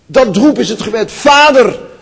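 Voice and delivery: high, loud call of Vader; crying out. Real, not acted. Preacher showing the congregation how to call out, loud and high.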